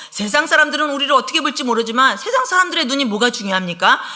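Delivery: usual speaking voice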